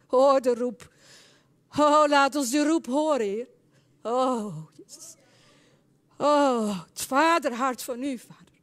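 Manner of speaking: loud opening cries easing back; impassioned plea with drawn-out exclamations; fervent prayer. Real, not acted. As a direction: call out to God in prayer.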